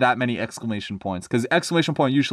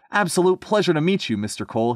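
higher, delighted greeting; beaming; 6 semitones higher than usual. Acted. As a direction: greet a guest with keen pleasure. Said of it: "he beamed".

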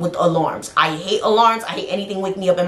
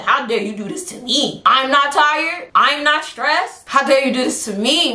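mocking mother's complaint; 6 semitones higher than usual. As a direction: parrot her guilt trip back at her. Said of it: "I said".

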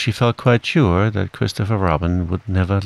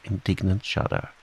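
ordinary delivery

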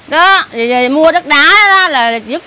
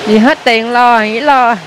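low, tearful admission after a long silence; real tearful; 4 semitones lower than usual. Real, not acted. Woman explains to the man asking why she cries, tearful. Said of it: "Nhưng mà sao khóc vậy?".

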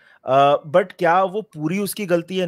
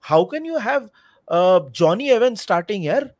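exasperated, higher-pitched protest; incredulous; 4 semitones higher, 4 dB louder than usual. Real, not acted. Fan questioning his club's spending on players, incredulous. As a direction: protest in real disbelief, voice pitched up. Disbelief at Evans starting.

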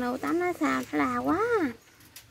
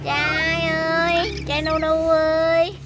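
drawn-out tender call; 4 dB louder, much slower than usual. Real, not acted. Mother calling son tenderly.

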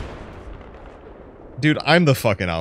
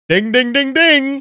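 ding ding; 7 dB louder, slower than usual. Real, not acted. Reaches the battle tower.

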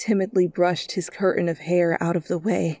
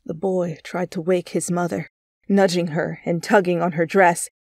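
ordinary delivery, nothing marked

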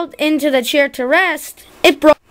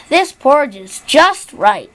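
happy. Acted. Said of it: "she said happily".

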